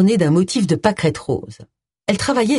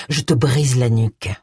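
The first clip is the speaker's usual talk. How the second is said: through gritted teeth; 5 semitones lower than usual. A narrator's reading. James threatening the man he has overpowered, gritted teeth. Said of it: "dit-il à Paul entre ses dents".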